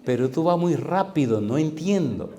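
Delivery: a hint of a woman struggling with Spanish; imitated Portuguese woman. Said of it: "Ella hablaba poquito español y me dice".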